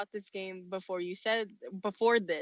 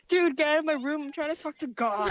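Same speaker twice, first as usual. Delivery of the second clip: higher, lightly put-on whine; mock annoyed teen; 5 semitones higher than usual. Playing a stoner interrupted by mom, mock annoyed teen.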